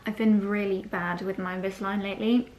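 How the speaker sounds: lisping through a dental brace. Real, not acted. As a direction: talk with a brace in, lisping the s sounds. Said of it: "excuse my lisp, I've got my brace in".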